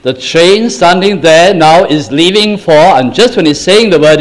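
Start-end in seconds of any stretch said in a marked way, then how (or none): 0.0-2.7 station announcer. Retold or imitated. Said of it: "A voice says".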